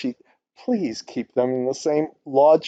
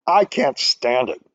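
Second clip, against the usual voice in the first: exasperated. Real, not acted. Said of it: "I'm just gonna bitch a little bit".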